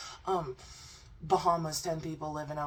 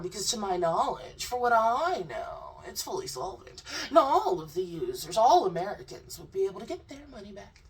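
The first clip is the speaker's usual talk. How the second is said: mock confused guest; 5 semitones higher, 4 dB louder than usual. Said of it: "He popped off".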